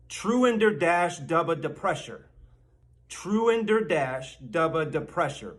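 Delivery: "Truender dash dubba depressure" measured, as one long word; deliberate pronunciation demo. Shown as a demonstration. Mock teacher teaching a very long word, deliberate demonstration. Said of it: "Say it a little more quickly".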